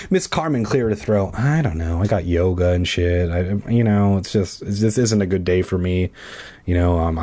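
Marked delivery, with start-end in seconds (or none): 1.4-7.2 low, hesitant improvised character; reluctant excuse-maker. Pretend. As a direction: fumble for excuses in a lowered voice. Improvises Miss Carmen making excuses.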